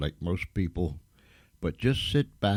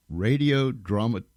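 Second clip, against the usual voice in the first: stumbling over a long word; tongue-tied. Real, not acted. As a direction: break off mid-word and restart it. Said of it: "get my tongue all tied up".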